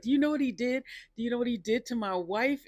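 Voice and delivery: hammed-up accusing question; mock outraged demand. Drunk husband confronting Kitty, mock outraged.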